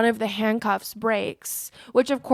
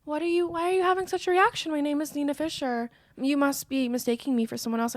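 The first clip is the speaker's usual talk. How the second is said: higher-pitched, puzzled innocent act; feigned innocence; 4 semitones higher, faster than usual. Retold or imitated. She pretends not to know why he reacts, feigned innocence. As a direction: play the baffled innocent, voice raised in pitch.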